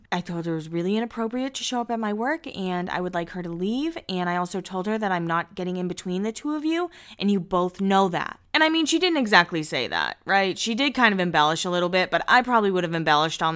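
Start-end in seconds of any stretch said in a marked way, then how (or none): 0.1-8.4 serious Heidi voice. Retold or imitated. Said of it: "that's how she talks".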